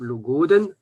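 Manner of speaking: "le goden" with the stress on the last syllable "den"; final stress. Shown as a demonstration. Teacher showing last-syllable stress on "le goden". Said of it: "si on prononce la dernière syllabe".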